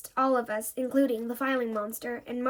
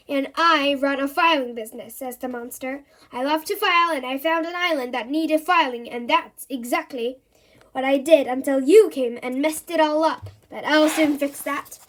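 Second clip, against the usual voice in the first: loud, indignant monster voice; angry monster; 7 dB louder than usual. Acted. Monster ranting that Jill messed up his filing. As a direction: rant like a fussy monster.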